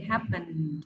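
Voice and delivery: "Happen" as "happend", closing on D; falling model of "Happen" with ND ending; final D sound. Shown as a demonstration. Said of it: "Không, là chữ D".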